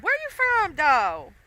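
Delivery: mock disbelief at a fake accent; incredulous question. Wondering where the pizza man is from, incredulous high question. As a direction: pitch jumps way up on where, then drops. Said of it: "And then I was like".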